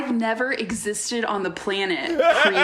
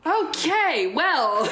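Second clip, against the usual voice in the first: unimpressed Letterman; 9 semitones higher, much slower than usual. Retold or imitated. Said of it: "be like".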